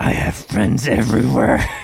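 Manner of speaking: rough, gravel-filled voice. Delivering a quoted line after talk of gravel, in a gravelly voice. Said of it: "He can put the gravel in his voice".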